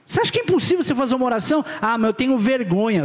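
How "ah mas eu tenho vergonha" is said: lightly voiced timid believer; mock excuse. Pastor imitating a member ashamed to pray, lightly mocking. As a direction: toss off the shy excuse.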